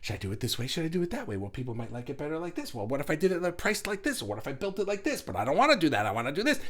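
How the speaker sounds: mock inner argument, pitch bouncing between options; back-and-forth dithering. Two ego options fighting over a product, mock dithering. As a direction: argue with yourself, switching sides.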